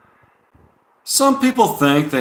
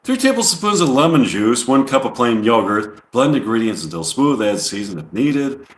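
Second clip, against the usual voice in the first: mock New York accent. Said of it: "I'm trying to do the, uh, New York accent now".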